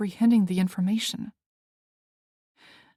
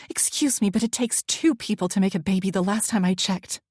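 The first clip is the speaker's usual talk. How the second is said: sharp retort; 3 dB louder than usual. Acted. She retorts angrily.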